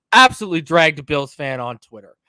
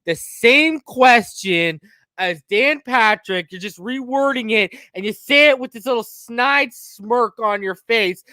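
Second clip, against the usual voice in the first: scornful rant; 4 semitones higher than usual. Retold or imitated. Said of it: "I'm like".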